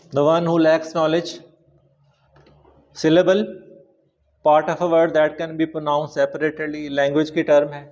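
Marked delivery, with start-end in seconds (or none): 0.1-1.3 slow dictation. Shown as a demonstration. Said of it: "slow dictation". 4.5-6.9 slow dictation. Shown as a demonstration. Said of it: "slow dictation".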